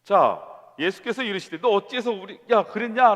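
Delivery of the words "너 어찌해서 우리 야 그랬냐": 높고 크게 버럭 다그치며; 잃었던 아이를 혼내듯 쏘아붙여; 다그치는 부모. Retold or imitated. 부모가 아이를 다그침. (아이를 찾은 부모가 아이에게, 높고 크게 버럭 다그침)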